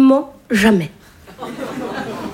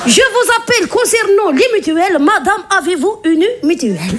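telemarketer. Retold or imitated.

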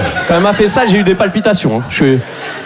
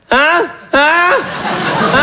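mocking nasal hein; 10 semitones higher than usual. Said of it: "des très gracieux".

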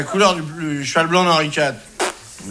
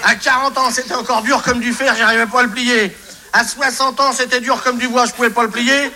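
lightly raised, reedy hint of an old man; old man of eighty; 6 semitones higher than usual. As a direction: play a chuckling eighty-year-old, only slightly aged. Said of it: "C'est un vieux monsieur de quatre-vingts ans".

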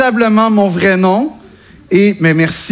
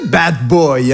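bad boy; 7 semitones lower than usual. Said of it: "un nom qui fait".

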